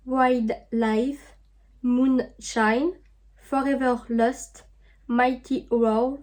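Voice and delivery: slow French-accented English, name by name; self-mocked English accent. Real, not acted. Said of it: "avec mon superbe accent anglais". (accent anglais approximatif, lentement)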